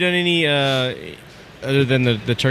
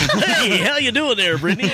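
sultry radio voice; 6 semitones higher than usual. Pretend. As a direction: lay on the cheesy radio charm. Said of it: "sultry radio voices".

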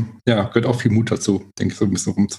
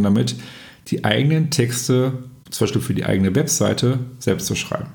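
measured, presenter-style episode introduction; podcast intro. Real, not acted. Host introduces guest Miriam to podcast listeners, podcast intro.

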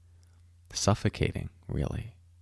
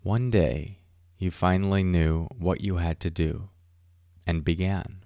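poem reading. Acted. Reads Mary Oliver poem.

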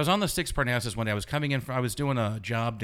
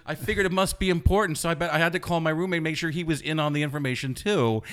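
higher, smug mock-innocent; smartass reply; 5 semitones higher, 3 dB louder than usual. Smartass guy answering the girl, smug and higher. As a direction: act the innocent wise guy. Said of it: "it's like".

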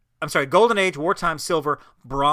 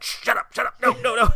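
higher, hammed-up brush-off; mock Naveen; 8 semitones higher than usual. Host imitates the prince brushing off the firefly, higher. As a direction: wave him off in a mock voice. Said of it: "Naveen's like".

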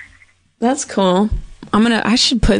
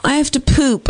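babyish mock voice; 6 semitones higher than usual. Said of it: "sounds like when people say".

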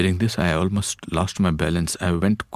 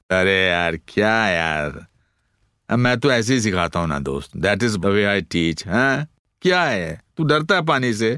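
swaggering trainer; 4 semitones higher, much faster than usual. Retold or imitated. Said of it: "an exaggerated version of me".

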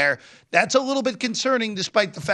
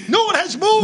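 shouting over fire alarm; 12 semitones higher, 5 dB louder than usual. Real, not acted. Fire alarm, voice raised high.

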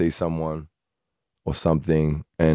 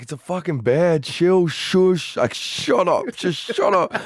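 higher, urgent shushing; urgent hush; 11 semitones higher, slower than usual. Retold or imitated. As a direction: hush her, frantic. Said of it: "I'm like".

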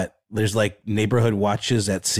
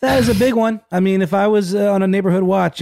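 excited; 10 semitones higher, 5 dB louder, faster than usual. Real, not acted. Excited about landing the spy.

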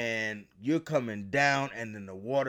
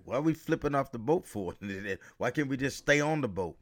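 raised, fast mock complaint; a hammed-up whiny why; mock protest; 3 semitones higher, faster than usual. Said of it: "And I'm saying, like".

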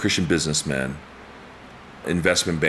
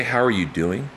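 higher, rising question with ARE leaned on; sincerely interested question; 4 semitones higher than usual. Shown as a demonstration. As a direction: ask as if staying to hear the answer. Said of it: "like, really know how you're doing".

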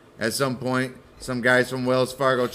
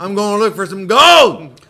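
high, loud shout through laughter; laughing shout; 7 semitones higher, 11 dB louder than usual. Pretend. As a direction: announce the gold rush with a laughing yell. Husband shouts plan, laughing.

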